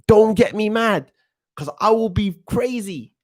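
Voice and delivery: high-pitched London street slang, fired up; ranting London teen accent about a footballer; hyped-up London roadman rant. Retold or imitated. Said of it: "that's my version of how I would, how I am when I was seventeen".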